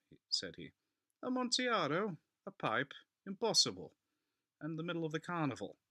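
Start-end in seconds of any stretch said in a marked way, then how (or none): 1.2-5.8 high, loud disbelieving cry; a drunk friend stunned by the news; astonished exclamation. A narrator's reading. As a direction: react as if it cannot be true. Fortunato's astonished outburst.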